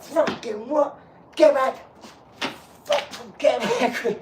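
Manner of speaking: high, loud startled shouting; mock angry yell. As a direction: recoil and bark at him in alarm. Acted startled angry reaction.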